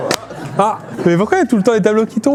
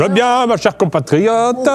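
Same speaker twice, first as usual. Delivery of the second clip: Sarkozy impression; 2 semitones higher, much slower than usual. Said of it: "On fait un Sarkozy challenge?".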